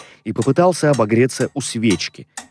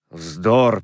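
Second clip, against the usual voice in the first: low, grumpy dismissal; grumbling; 4 semitones lower than usual. A narrator's reading. Scrooge dismissing his nephew's greeting, grumbling. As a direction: grumble it in a lowered voice. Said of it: "проворчал Скрудж".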